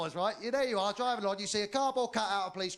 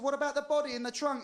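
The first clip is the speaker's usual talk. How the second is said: higher, pressing question; insistent interrogation; 6 semitones higher than usual. Acted. Sheriff pressing the driver about the trunk, insistent. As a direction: play a sheriff pushing for a confession.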